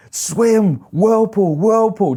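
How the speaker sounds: captain yelling at the swimmer near the whirlpool. Retold or imitated. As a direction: bark the warning like the captain. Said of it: "just yelling".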